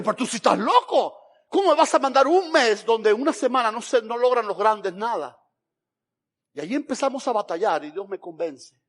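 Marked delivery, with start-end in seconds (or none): 0.0-5.4 outburst. Retold or imitated. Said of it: "ahí exploté yo y dije".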